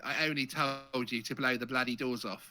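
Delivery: Cockney film-star impression; punchy put-on Cockney accent; Michael Caine. Shown as a demonstration. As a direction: do a broad London movie-baddie voice. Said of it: "kind of a bit like Michael Caine".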